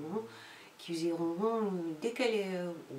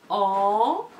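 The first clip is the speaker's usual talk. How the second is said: en said louder, set apart; sound en stressed; 5 dB louder than usual. Shown as a demonstration. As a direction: isolate the sound en clearly. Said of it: "travailler essentiellement la difficulté entre le son".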